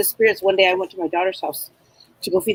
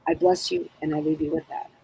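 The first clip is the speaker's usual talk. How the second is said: soft blessing; 5 dB quieter than usual. Retold or imitated. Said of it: "she says".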